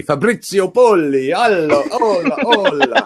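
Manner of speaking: high, hammed-up calling out; playful greeting. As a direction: hail the guest with theatrical flourish. Playful Italian greeting to guest.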